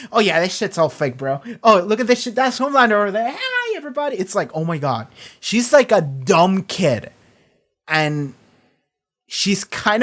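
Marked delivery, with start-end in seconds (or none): 0.1-4.2 hammed-up giddy kid, building up; mock excited Stormfront. Stormfront mocking the fake set, getting giddier.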